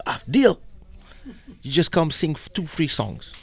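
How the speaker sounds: high-pitched, excited agreement; imitated eager promoter. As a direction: seize the offer at once. Acting promoter seizing the deal.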